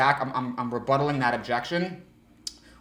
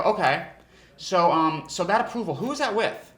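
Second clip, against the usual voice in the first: higher, doubtful probe; higher skeptical question; seeding doubt; 5 semitones higher than usual. Retold or imitated. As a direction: plant a little doubt. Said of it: "doing that to seed doubt".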